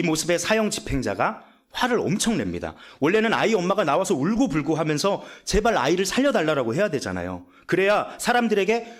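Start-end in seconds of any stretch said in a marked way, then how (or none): none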